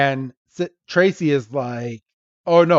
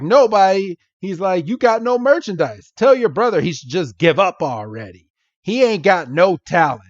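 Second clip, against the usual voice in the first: mock yelling shopkeeper; 5 semitones higher than usual. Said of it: "this guy yelling at this little girl".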